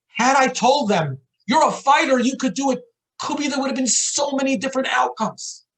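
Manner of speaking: impassioned, high-pitched retold self-reproach; anguished confession. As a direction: voice lifted in pained regret, insistent.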